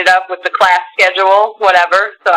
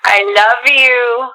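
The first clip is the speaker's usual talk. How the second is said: cooing to a dog; slower than usual. Real, not acted.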